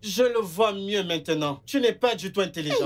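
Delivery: low, grave preaching voice; solemn preacher. Acted. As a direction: sermonize down at him.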